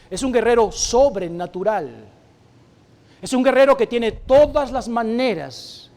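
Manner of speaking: loud, slow, emphatic sermon delivery; forceful preaching. Acted. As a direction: drive each phrase home from the pulpit. Preaching about the spiritual fight. (predicación enérgica, lenta y fuerte)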